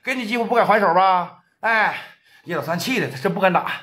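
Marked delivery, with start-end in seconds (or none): 0.0-1.4 contemptuous warning. Acted. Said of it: "王建军讲话了".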